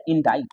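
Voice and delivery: इंडाइट ending in "ait", no k; silent-C pronunciation. Shown as a demonstration. Teacher gives the correct word, इंडाइट with silent c. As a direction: rhyme the end of इंडाइट with kite. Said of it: "इसे बोलते हैं".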